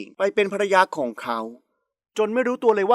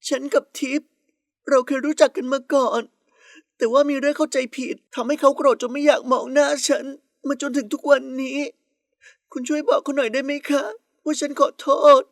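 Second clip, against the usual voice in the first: put-on higher, plaintive young woman's voice; tearful rival pleading; 5 semitones higher than usual. A narrator's reading. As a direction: beg a favour, wounded and fragile. (อ้อนวอนเสียงเศร้า)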